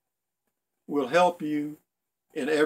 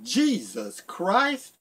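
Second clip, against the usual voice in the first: slow, stretched mock yell, pitched higher; 5 semitones higher, much slower than usual. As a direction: drag it out like a startled kid. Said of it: "she yelled out".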